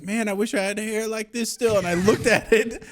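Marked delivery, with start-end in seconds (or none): 0.0-1.8 lightly voiced grandma. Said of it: "looking at it like".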